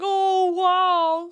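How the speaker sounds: high, loud, lightly voiced awe; mock impressed. Streamer voicing her drawn character, lightly voiced awe. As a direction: play the character's wide-eyed reaction.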